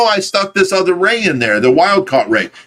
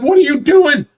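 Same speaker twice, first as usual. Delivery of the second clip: startled high question; 10 semitones higher than usual. Retold or imitated. Buddy catching him adding a hose, startled high voice. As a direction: squeak it out like you just caught him. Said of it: "he'll be like".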